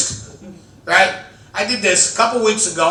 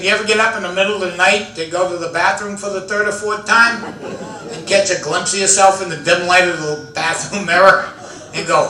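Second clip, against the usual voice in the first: ordinary talk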